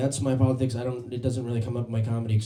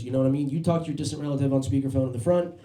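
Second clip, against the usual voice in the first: ordinary talk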